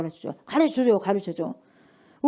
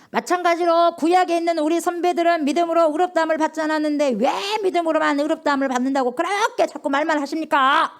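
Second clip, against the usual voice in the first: raised, arguing complaint; demanding why, higher; protesting to God; 6 semitones higher than usual. Acted. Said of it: "하나님께 따지는 거예요".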